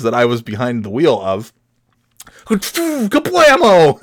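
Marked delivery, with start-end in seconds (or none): 2.5-4.0 sudden bang. Retold or imitated. Car suddenly bangs.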